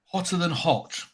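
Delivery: talking through chili heat; mouth burning from spicy food. Real, not acted. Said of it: "Warming up".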